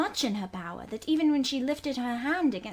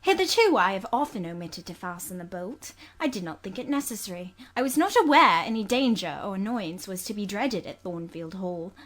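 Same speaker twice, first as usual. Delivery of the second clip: sharply; 4 dB louder than usual. Acted. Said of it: "I replied sharply".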